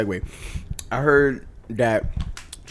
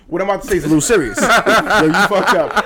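stifled giggles; 7 semitones higher, 4 dB louder than usual. Real, not acted. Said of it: "I'm trying not to laugh".

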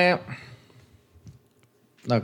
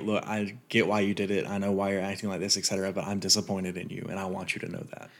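calm disappointed parent; 2 semitones lower, 6 dB quieter than usual. Retold or imitated.

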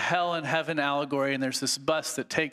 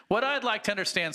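accusing ghost; 8 semitones higher than usual. Acted. Ghost voice in reading.

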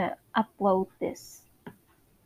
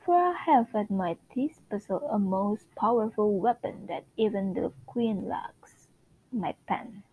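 a lightly put-on British narrator, measured and grand; Lady Whistledown narration. Reading Whistledown's column to her listeners, lightly British. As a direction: read it like a gossip columnist's decree.

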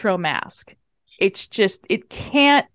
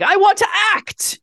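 eager plea; 11 semitones higher than usual. Retold or imitated. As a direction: beg like a hopeful starlet. Samantha's eager plea, imitated.

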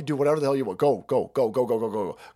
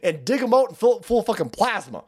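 mock ranting patriot. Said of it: "He's not allowed to say".

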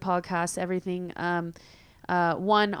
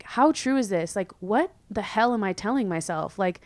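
exasperated self-talk; 4 semitones higher than usual. Retold or imitated. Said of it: "I've been like".

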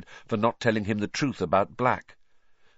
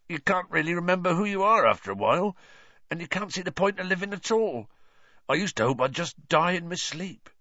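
tearful Hagrid; 6 semitones higher than usual. Acted. Hagrid tearful about Azkaban.

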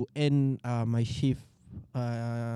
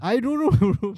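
laughing; 9 semitones higher, 3 dB louder than usual. Real, not acted. Laughing at the memory.

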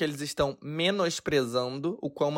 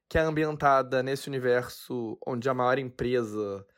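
hiccuping mid-sentence; with hiccups; 5 semitones lower, slower than usual. Real, not acted. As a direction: talk through the hiccups. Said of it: "Ai, gente, eu tô com soluço".

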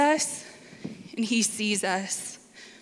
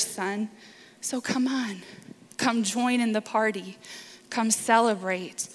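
tender father. Pretend. Father tenderly answers older son.

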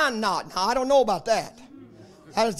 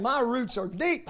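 quiet confession; 7 dB quieter than usual. Acted. Aging preacher telling the church of his trials, softly. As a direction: say it almost to yourself, worn but sure. Quiet personal refrain, near whisper.

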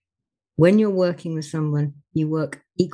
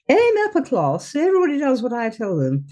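lofty, raised voice of the upper-class man; upper-class tall bloke; 6 semitones higher than usual. Retold or imitated. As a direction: talk down from above, grandly. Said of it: "the tall bloke".

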